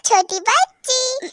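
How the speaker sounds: P=A; drawn-out taunt. Acted. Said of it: "अब तो मैं जरूर करूंगा".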